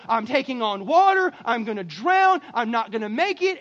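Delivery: loud, hammed-up desperation; acted panic. Believer praying through a crisis, acted loud panic. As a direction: cry out like someone going under. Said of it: "when you're going through your craziness".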